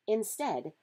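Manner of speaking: ordinary delivery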